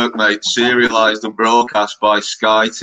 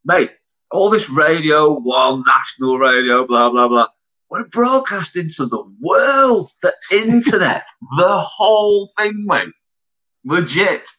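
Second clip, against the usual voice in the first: mock big talk; 3 semitones higher than usual. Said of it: "Me and Noel was like that".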